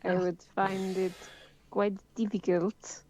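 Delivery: careful mock French accent, slowing at the end; mimicked continental accent. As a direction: try on a continental European accent. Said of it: "could you all mimic her?".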